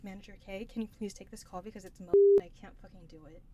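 low, soft, quick mutter; retold hushed plea. Worker asking manager to take the call, hushed. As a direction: rush it out under your breath.

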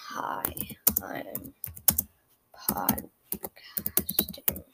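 breathy, drawn-out mock reply, very slow; mock friend voice. Answering his friend Mason's text in a mock drawn-out voice. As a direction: stretch podcasting out as a tease. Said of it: "My friend Mason said hi".

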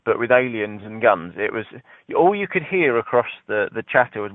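normal talking voice

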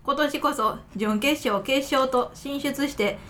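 letter read with strong Kansai intonation; Kansai accent. Real, not acted. Host reading a listener's good wishes, in Kansai accent. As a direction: let Kansai intonation take over the reading. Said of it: "バリバリ関西弁で喋ってもうた".

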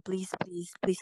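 breathy whisper, pleading for mercy; whispered begging. Retold or imitated. Wife whispering to her husband, pleading to stop. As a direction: beg in a bare whisper. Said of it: "begging him".

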